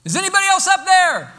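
very high, loud desperate holler. Acted. Man on the branch seeks a second opinion, hollering high. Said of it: "he hollers out".

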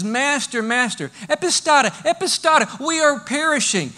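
alarmed disciples calling to their sleeping master; urgent plea. Acted. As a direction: cry out Master in panic. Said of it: "it says".

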